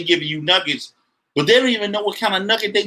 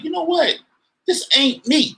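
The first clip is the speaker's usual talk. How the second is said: higher, firm refusal to take it; defiant inner retort; 4 semitones higher, slower than usual. Retold or imitated. Telling a critic he won't be put down. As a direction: act out brushing off someone's projection. S0 acts out his inner reply.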